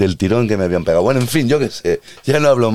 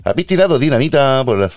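put-on light Mexican accent, higher pitch; 6 semitones higher than usual. Police at the door questioning, light Mexican accent. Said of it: "así hablan los mexicanos".

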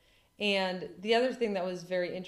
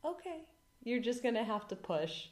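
high, softer, sweetly calm; 4 semitones higher, 5 dB quieter than usual. Retold or imitated. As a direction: smile and gently tell her to push. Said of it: "sweetly smiled and said".

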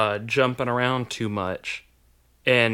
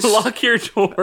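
weatherman voice; 9 semitones higher, 5 dB louder, slower than usual. Retold or imitated. Joins the forecaster bit.

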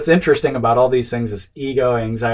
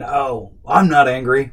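louder, mock-insistent denial; acted angry denial; 2 semitones higher, 6 dB louder, slower than usual. Man stuffing his anger and denying it, mock insistent. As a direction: play someone lightly bottling up anger. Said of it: "stuffing your anger".

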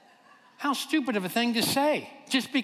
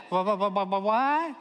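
stunned stammer. Retold or imitated. Stunned stammer in retold story.

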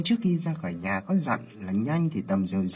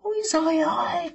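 high crying shout of despair; anguished wail; 4 dB louder than usual. Acted. Aunt wailing at her pregnant niece, crying shout. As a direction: wail it out, voice cracking with tears. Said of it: "nghiến răng hỏi".

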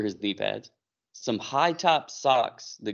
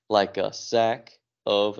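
drawn-out buildup; much slower than usual. Retold or imitated. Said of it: "he built it up like he had so much aggression".

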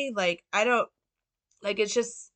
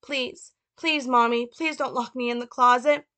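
put-on high child's voice, begging and pleading; Little Frank; 5 semitones higher, 3 dB louder than usual. Boy begging his mother not to lock him away, high pleading. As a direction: plead like a small boy afraid of the dark. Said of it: "Little Frank".

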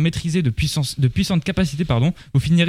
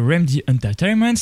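English studio name with a French-tinged English accent; attempted English pronunciation from a French speaker. Real, not acted. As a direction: switch into your best English accent for the name. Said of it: "Magnifique accent".

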